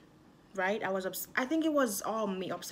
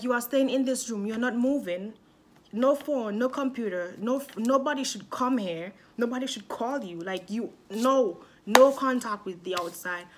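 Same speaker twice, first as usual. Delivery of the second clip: louder, strict mom laying down the rules; stern mom; 3 semitones higher, 5 dB louder than usual. Retold or imitated. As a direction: mom grounds her daughter for the summer, louder and strict. Mom lays down the grounding.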